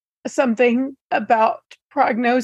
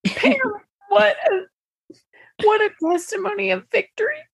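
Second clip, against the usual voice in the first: tearful; 5 semitones higher than usual. Real, not acted. Moved by the story.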